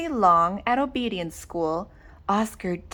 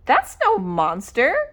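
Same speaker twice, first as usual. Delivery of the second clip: cry; 3 semitones higher than usual. Acted. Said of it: "cried Oscar".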